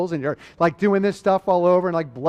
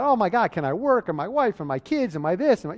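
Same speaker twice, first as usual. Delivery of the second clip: mildly panicked, higher-pitched run of worries; freaking out; 3 semitones higher than usual. Acted. Imagined crash victim worrying about work and family, mildly freaking out. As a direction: act out a mild freak-out, worries piling up. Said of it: "I'm gonna be freaking out".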